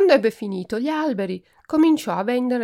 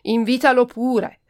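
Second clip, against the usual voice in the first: louder, disdainful retort; sprezzante, con disprezzo; scornful; 3 semitones higher, 6 dB louder than usual. A narrator's reading. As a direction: toss it off with contempt. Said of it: "rispose sprezzante Donna Prima".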